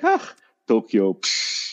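slow, scornful brush-off; dismissive scoff. Retold or imitated. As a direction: wave it off with contempt.

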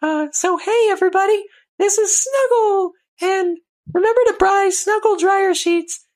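very high cutesy bear voice; Snuggle. Acted. Mascot bear selling dryer sheets to listeners, in a tiny high voice. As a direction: plug it like a squeaky advert mascot. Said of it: "Always talks like this".

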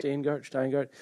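"Steingart" first as STAIN-gart, then STINE-gart; two tentative tries at "Steingart", vowel changing; trying out pronunciations. Shown as a demonstration. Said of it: "Is that how it's".

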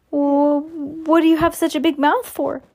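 high-pitched little questioning voice; frightened boy. A narrator's reading. The boy questions the creature's claws, high-voiced and frightened. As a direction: ask it high, as a frightened child.

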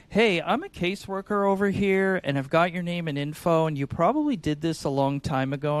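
lightly sing-song, confused cold call; sing-songy confused caller. Retold or imitated. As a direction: sound lost and ask for help. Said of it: "a little bit of a sing-songy, like, I'm confused".

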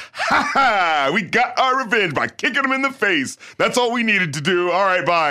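hammed-up gloating with a fake laugh; mock triumph. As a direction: crow sarcastically as the smug filmmaker. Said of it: "it so felt like this thing of".

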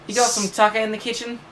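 put-on Australian accent. Player using the quiz word in a sentence, Australian accent. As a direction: ask it as a hammed-up Aussie. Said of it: "So put it in a sentence".

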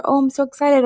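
excited fan. Retold or imitated. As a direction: squeal it like a happy listener. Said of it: "other people are like".

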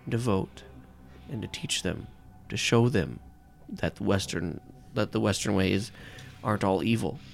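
wife calming her husband, lightly voiced; Rachel soothing. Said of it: "you hear Rachel ... pipe up".

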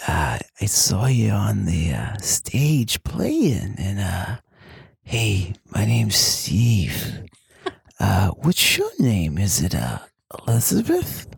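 breathy, slow, awkward come-on; seductive third grader. Acted. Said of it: "You sound like a seductive third grader".

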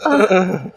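loud mock shudder noise; badly faked slump-and-shiver groans. Shown as a demonstration. Co-host trying Usagi's collapse noise, shivering groan. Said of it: "slumping and shivering at the same time".

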